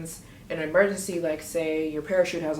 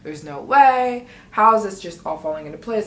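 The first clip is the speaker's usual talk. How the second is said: excited disbelief; 2 semitones higher, 7 dB louder than usual. Retold or imitated. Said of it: "I'm like".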